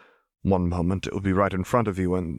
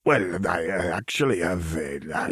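hesitant. A narrator's reading. Rana hesitantly tries to refuse.

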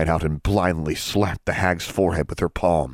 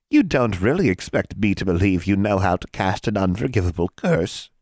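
hag voice. Acted.

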